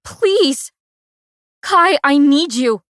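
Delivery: high loud desperate plea; crying, frantic begging. A narrator's reading. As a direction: beg him with everything. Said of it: "I'm begging now".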